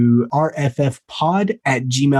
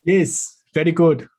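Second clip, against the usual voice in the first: throaty Russian accent; 3 semitones higher than usual. Shown as a demonstration. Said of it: "more in the bottom of the throat".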